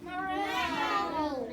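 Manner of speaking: cat sound. Acted. Child answers cat sound.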